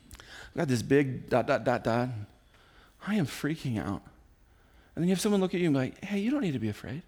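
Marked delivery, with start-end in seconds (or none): 0.1-4.0 mock confession. Acts confiding a fear to someone. 6.0-7.0 mock reassurance. Acts a soothing listener's reassurance.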